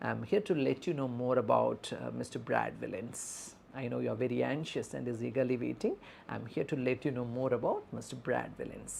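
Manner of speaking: softly reassuring nurse; empathetic. Shown as a demonstration. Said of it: "we are empathetically dealing with the patient's bystander".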